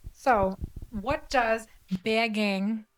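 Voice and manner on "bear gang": put-on slow, careful copy of a Boston accent; imitated Boston accent. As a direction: try on the guest's Boston accent, slowly. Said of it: "I wanna say it like you".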